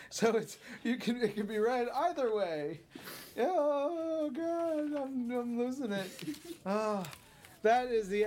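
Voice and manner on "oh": ordinary talk, nothing marked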